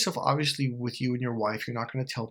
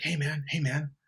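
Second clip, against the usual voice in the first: nervous mock voice, breaking into laughs; laughing through an anxious mock voice; 2 semitones higher than usual. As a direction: play it anxious, cracking up. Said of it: "they're like".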